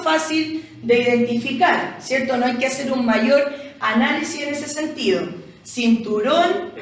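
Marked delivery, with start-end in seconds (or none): 5.6-6.7 "Cinturón" slowly, weight on the final rón; teacher drawing out "Cinturón" to show its stress; stress on last syllable. Shown as a demonstration. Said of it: "cargamos la voz".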